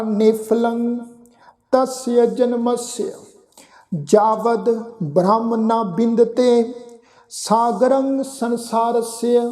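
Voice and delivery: very slow, word-by-word path; slow recitation. Shown as a demonstration. Teacher reciting the full line for the congregation, very slowly. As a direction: draw out each word of the verse. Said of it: "ਸ਼ਬਦ ਦਾ ਪਾਠ ਆ".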